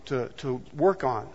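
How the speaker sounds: soft, quiet urging; a hint of God's whisper; softly voicing the Spirit's nudge; gentle inner voice. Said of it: "the Spirit of God help you by speaking".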